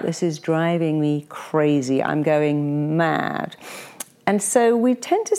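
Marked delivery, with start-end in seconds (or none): 0.0-3.6 dragged-out complaint. Retold or imitated. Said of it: "But we say".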